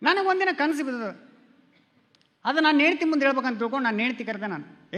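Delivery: usual speaking voice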